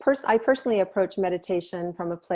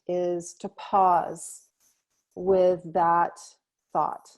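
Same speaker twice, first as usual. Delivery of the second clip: guided meditation. Real, not acted. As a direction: ease them into stillness, leaving space between phrases.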